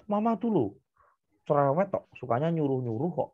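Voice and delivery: mock sulky kid complaining; a child sulking at mom who nags. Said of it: "Alicianya ngambek".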